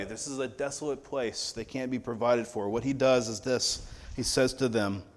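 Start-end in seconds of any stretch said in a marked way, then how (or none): 0.0-2.7 a soft, quiet echo of the disciples; voicing the disciples, quiet and dismissive. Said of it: "Send them away".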